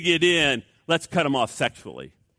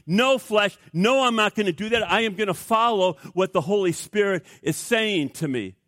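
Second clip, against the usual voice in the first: firm refusal; 3 semitones higher than usual. Acted. Believer refuses the flesh.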